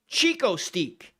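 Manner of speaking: "Steak" said as a long "steek"; snobby "steek". Real, not acted. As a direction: stretch "Steak" slowly into "steek". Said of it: "What is that snobby version of".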